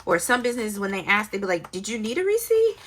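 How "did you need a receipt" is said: high-pitched imitation of a shocked clerk; mock shock. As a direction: mimic disbelief, pitch shooting way up. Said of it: "almost like in a form of shock".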